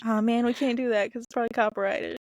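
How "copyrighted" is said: copyrighted with a country twang; slight country accent on the word. Real, not acted. Co-host worries the shirt idea is copyrighted, country accent. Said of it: "You sounded very country".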